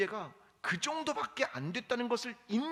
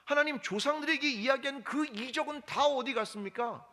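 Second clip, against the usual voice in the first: complaining; 5 semitones higher than usual. Retold or imitated. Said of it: "불평을 쏟아내고".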